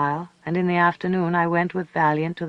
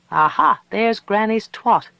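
louder, higher cry of recognition; exclaiming; 6 semitones higher, 6 dB louder than usual. A narrator's reading. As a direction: crow it on sighting the place. Companion exclaims on sighting the town.

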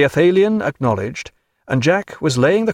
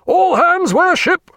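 loud, drawn-out high shout; raised-voice command; 5 dB louder, slower than usual. A narrator's reading. Captain to all hands, raised-voice slow shouted order. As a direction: call all hands across the deck. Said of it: "Then raising his voice".

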